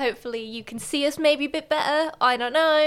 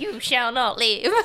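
Voldemort voice; slower than usual. Pretend. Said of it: "'Cause that's what Voldemort sounds like".

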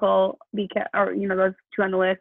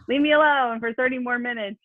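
higher-pitched, testy retold plea; snippy; 5 semitones higher than usual. Mom retelling her plea to interrupting kids, snippy. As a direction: whine it a little, mock impatient. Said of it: "I get snippy".

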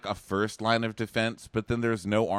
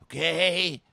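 high, slow, put-on hushed voice; hammed-up passive-aggressive whisper; mock whisper; 6 semitones higher, slower than usual. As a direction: fake a calm whisper while seething. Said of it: "Kenny's like".

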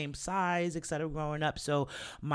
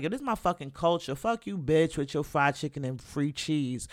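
mock defiant comeback; 3 dB louder than usual. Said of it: "instead of being proud and being like".

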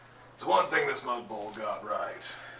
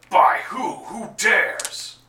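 much higher and louder, indignant; outraged shout; 10 semitones higher, 11 dB louder, much slower than usual. Acted. Mongol learning War World is invaded, outraged shout. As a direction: bellow it like an offended warlord. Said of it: "He goes".

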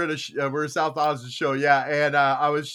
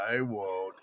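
whisper; 8 semitones lower, 10 dB quieter than usual. Acted. Answering the sticker meekly.

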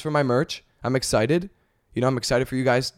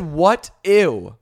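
mock girl voice; 4 semitones higher, 6 dB louder than usual. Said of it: "She said".

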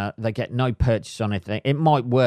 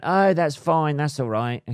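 mimicking girlfriend; 6 semitones higher than usual. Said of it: "my girlfriend ... went".

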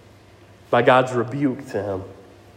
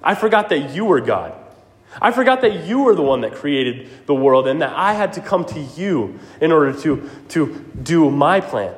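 sarcastic. Acted. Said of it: "God is sarcastically saying to Job".

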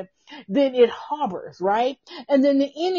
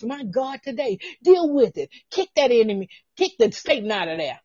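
exhortation; 3 semitones higher than usual. Real, not acted. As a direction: push them hard to deal with it. Exhorting to deal with it.

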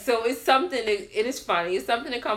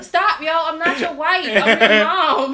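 high, loud objection, laughter creeping in; loud mock protest; 8 semitones higher, 11 dB louder than usual. Mom correcting her kid, loud laughing mock protest. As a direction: protest loudly while amused.

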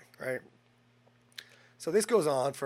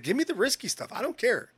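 higher, louder give me the risky stuff; defiant demand; 9 semitones higher, 6 dB louder than usual. Retold or imitated. Patient demanding risky chemo from doctor, loud and defiant. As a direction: demand it like nothing scares you.

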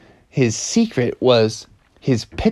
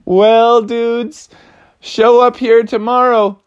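slightly higher swaggering voice; a hint of a cocky frog; 8 semitones higher, 4 dB louder, slower than usual. Froggy telling his team to show up, lightly cocky. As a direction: talk big to the team.

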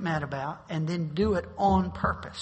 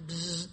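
soft buzzing hum of a car window; quick imitated electric whir; imitated window motor; 7 dB quieter than usual. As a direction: buzz like a power window.

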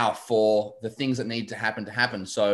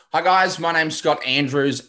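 upbeat intro; 5 semitones higher, 4 dB louder than usual. Real, not acted. Opens podcast intro on cue.

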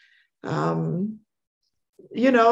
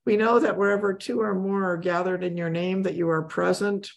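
prayer; 2 semitones lower than usual. Acted. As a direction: pray it reverently. Leads closing prayer.

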